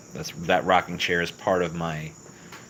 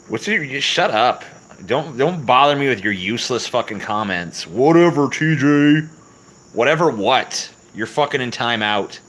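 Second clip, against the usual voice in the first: loud, higher, hammed-up anger; mock yelling; 6 semitones higher, 6 dB louder than usual. Streamer hams up yelling at chatter TJ, loud and high. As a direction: bark at TJ in mock outrage.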